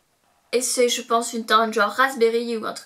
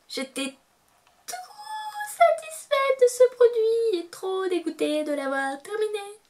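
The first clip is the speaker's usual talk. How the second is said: loopy mock grief; 6 semitones higher than usual. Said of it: "un petit peu déliré".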